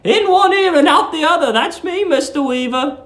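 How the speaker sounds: put-on high, fussy voice of a sweet old landlady. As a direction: coo it like a doting old landlady.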